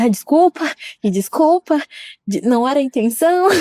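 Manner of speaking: hurried apology. Retold or imitated. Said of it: "eu falei assim".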